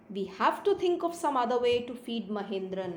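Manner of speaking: slow, measured English reading; story read-aloud. A narrator's reading. Teacher reading a story to pupils, slow read-aloud. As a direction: read it out slowly for a class.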